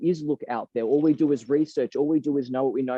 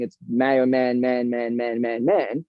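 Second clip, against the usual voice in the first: low, monotone mock chant; mock droning; 4 semitones lower, slower than usual. Mimicking how people see his image, mock droning. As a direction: drone the word on one low note.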